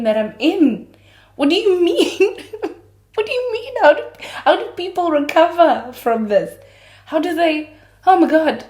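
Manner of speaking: high, loud hammed-up anguish; melodramatic heartbreak. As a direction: wail about your pain for laughs. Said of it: "and I'm like".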